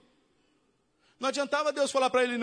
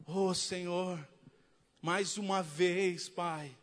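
slow, soft, lower mock plea; slow pleading prayer; 5 semitones lower, 3 dB quieter, much slower than usual. Believer asks God once more, slow mock pleading. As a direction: drag out the plea like a needy believer.

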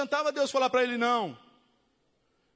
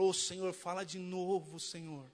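softer, lower mock-whiny plea to God; whiny prayer; 5 semitones lower, 7 dB quieter than usual. Believer begs God to speak again, mock-whiny and soft. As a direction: lightly imitate a believer begging for another verse. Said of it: "você fala".

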